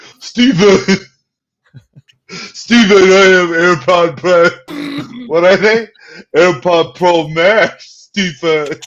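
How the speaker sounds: loud, high, drawn-out defensive insistence. Act out the man struggling with his headphones answering your GoFundMe joke, imitating someone being defensive. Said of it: "him being defensive and being like".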